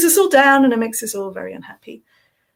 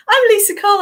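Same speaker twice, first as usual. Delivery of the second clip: voice breaking; 11 semitones higher, 5 dB louder than usual. Real, not acted. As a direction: voice cracks high mid-name. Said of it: "I'm a teenage boy whose voice is breaking".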